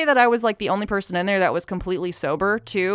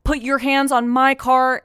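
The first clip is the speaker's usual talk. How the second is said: slow, loud, raised-pitch police orders; cop on loudspeaker; 6 semitones higher, 6 dB louder, slower than usual. Retold or imitated. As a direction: imitate measured commands over a car speaker. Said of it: "With his, like, speaker thing".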